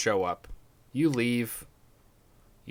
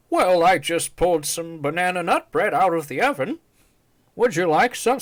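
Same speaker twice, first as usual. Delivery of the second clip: put-on high, sweet little-old-lady voice; 6 semitones higher, 5 dB louder than usual. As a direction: imitate a kind grandma asking politely. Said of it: "So she's like".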